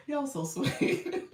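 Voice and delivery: slow. Real, not acted. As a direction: draw each word out gently. Repeats thanks drawn out.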